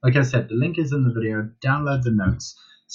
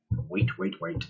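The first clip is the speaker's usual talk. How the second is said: patient wait; 6 semitones lower, 7 dB quieter, slower than usual. Shown as a demonstration. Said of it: "biggest things with dog training, is to wait".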